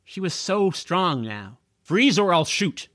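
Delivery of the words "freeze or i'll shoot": policeman yelling. Acted. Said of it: "yelled the policeman".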